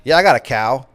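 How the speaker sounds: lightly imitated country Texan; Texas country accent. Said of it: "country-ass Texas people".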